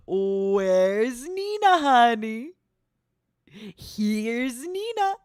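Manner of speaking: slow, eerie horror line with a gasp; slow spooky movie villain voice; Shining quote. Acted. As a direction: drag it out like a creepy film villain. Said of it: "I have to do it this way".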